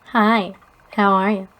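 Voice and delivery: a creepy channel greeting, lightly mocked; creepy YouTuber greeting. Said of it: "I fucking hate that he does that".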